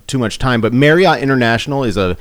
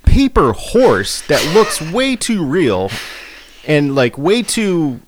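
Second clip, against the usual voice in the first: incredulous excitement; 5 semitones higher than usual. Real, not acted. Laughing disbelief at the paper horse.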